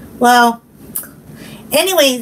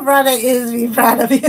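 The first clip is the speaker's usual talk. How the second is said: laughing; faster than usual. Real, not acted. Laughing reply to praise.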